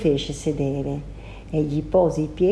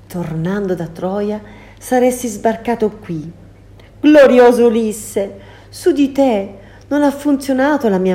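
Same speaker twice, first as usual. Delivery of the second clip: higher, imploring plea; pleading sorceress; 4 semitones higher, 4 dB louder than usual. Acted. Circe begging Ulysses to forgive her, imploring. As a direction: beg the hero for mercy.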